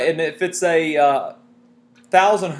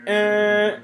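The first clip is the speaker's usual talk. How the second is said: receding Doppler tone; 3 semitones higher, 3 dB louder than usual. Shown as a demonstration. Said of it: "So that would sound like".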